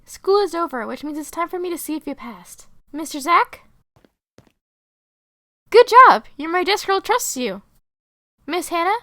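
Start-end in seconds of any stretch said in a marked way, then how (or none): 5.7-6.3 loud, high burst of approval; delighted praise. Acted. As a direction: cheer a student who passed. Teacher praises passing student.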